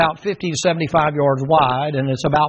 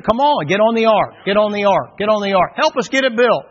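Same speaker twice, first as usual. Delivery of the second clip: pleading call; 4 semitones higher than usual. Retold or imitated. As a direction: keep calling them onto the ark. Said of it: "And he says to him".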